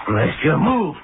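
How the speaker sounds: pleading, high and urgent; desperate plea. Acted. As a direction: beg it to move. Begging the spider to move.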